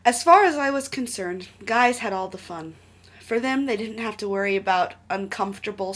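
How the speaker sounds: reading the story aloud; animated storytelling read; story narration. A narrator's reading. Reads fanfic aloud.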